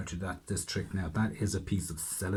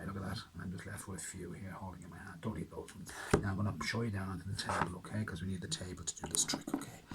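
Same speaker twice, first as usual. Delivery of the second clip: magical whisper; 7 dB quieter, faster than usual. Pretend. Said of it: "I'm talking in my magical voice".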